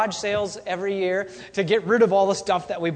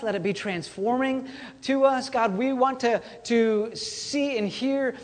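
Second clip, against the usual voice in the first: prayer. Real, not acted. Pastor praying over the congregation, hushed and sincere. Pastor prays before the sermon.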